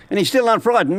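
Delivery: a light devil voice in disbelief. Acted. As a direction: press him again, puzzled. Devil incredulous.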